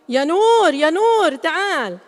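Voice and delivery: calling Nour to come over. Acted. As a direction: shout the name across the house. Calling a child across house.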